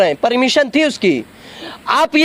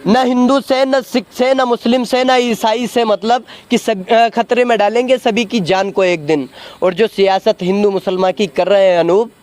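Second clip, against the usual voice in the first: measured poetic recitation in a debate; reciting a couplet; 4 semitones lower than usual. Acted. Man recites a couplet at the reporter, measured recitation. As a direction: recite the sher with weight, lines spaced out. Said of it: "उनके लिए ये शेर है".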